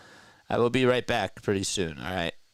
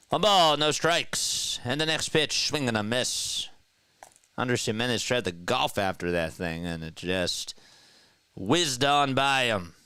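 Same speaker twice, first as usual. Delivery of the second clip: live play-by-play; 3 semitones higher than usual. Acted. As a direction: stretch out the call of the pitch. Calls the pitch live.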